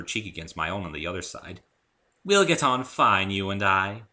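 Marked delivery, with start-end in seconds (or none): 2.2-4.0 loud slow refined pony lady; fond elegant unicorn; gracious Rarity purr. A narrator's reading. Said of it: "Rarity speaking".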